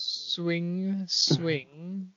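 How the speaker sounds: choppy words like a dropping call; breaking-up signal. Pretend. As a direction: cut in and out like a bad line. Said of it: "Make it sound like the podcast is breaking up".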